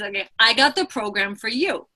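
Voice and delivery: a hint of a put-on accent on "okay, I got the program for you"; barely-there playful accent, slipped in mid-pitch; unplaced accent. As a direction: lightly slip into an unplaced accent, almost unnoticed. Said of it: "I don't know where that accent came from".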